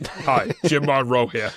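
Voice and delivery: slow, laughing fake Boston accent; a jokey Boston accent through a laugh; laughing Boston-accent presidential greeting; mock Boston accent. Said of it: "can I do it in my Boston accent".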